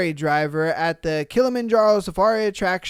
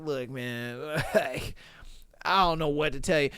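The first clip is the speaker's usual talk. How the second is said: mock helpless apology; 7 semitones lower, 9 dB quieter than usual. Imagined apology to a parent.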